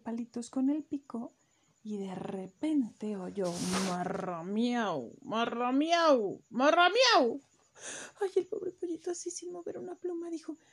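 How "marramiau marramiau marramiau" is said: cat meow. Acted. Cat's meow heard from afar.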